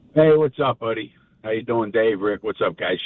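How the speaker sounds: dejected tone. Greeting the hosts as a caller on the air, sounding down. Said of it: "why do you sound so down".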